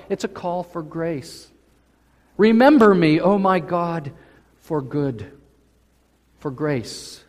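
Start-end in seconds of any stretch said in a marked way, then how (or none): 2.4-5.3 proclaimed prayer. Acted. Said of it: "He says".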